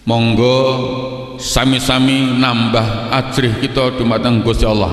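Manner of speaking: lightly voiced slow khotib reading in Javanese; slow, formal Javanese sermon reading, lightly imitated; old-style Javanese khotib. Preacher imitating a village khotib for the congregation, slow and formal. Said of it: "khotib biasanya begini".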